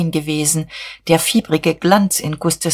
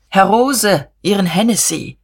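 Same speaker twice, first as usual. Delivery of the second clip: a lifted, mildly raised call; 3 semitones higher than usual. A narrator's reading. Buck orders cognac from Herr Rose, calling out. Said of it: "rief Buck".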